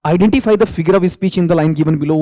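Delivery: reads the question out slowly, word by word; dictating an exam question. Acted. Teacher reading the question to students, slow and deliberate.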